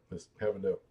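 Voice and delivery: slurping a drink; slurping a drink mid sentence; sipping hot tea. Real, not acted. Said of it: "I'm slurping in y'all's ear".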